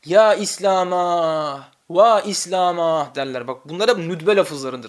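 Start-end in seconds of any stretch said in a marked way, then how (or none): 0.1-3.1 slow lament call. Shown as a demonstration. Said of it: "bazen ağlayarak ne derler".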